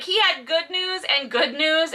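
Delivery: ordinary talk, nothing marked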